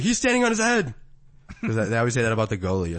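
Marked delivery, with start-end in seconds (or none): 0.0-0.9 high, loud announcer call; hyped-up TV hockey commentator. Retold or imitated. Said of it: "I'm like".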